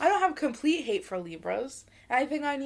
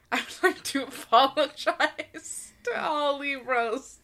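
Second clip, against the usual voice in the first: mock solemn apology; 5 semitones higher, 5 dB louder, slower than usual.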